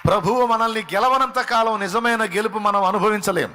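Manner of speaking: high, loud fervent preaching; preaching at full force. Acted. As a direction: hammer the truth home from the pulpit. Preaching climax to the congregation.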